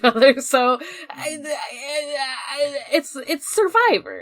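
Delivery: laughing cries, pitch jumping up; cracking up mid-sentence. Real, not acted. Chatting with friends about anime, breaking into laughter. Laughing while arguing the point.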